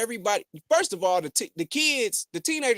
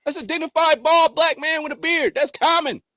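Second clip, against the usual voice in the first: hyped; 5 semitones higher, 4 dB louder than usual. Real, not acted. Hyping a rapper's photo.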